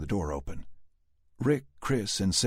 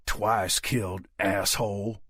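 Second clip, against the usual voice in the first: Southern drawl; 2 semitones higher, slower than usual. A narrator's reading. Dallas spitting on zombie.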